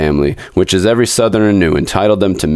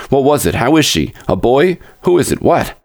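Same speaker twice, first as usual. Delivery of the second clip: higher-pitched, anxious volley of questions; gasping rush; 6 semitones higher than usual. A narrator's reading. Expectant father begging the doctor for news, gasping rush. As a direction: fire off questions as if just run up. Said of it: "came up in a gasping rush".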